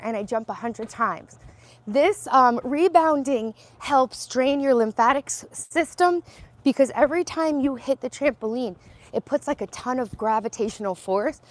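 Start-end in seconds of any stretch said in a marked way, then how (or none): 1.9-11.4 louder, effortful talk while jumping; talking while bouncing. Real, not acted. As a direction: push the words out mid-bounce.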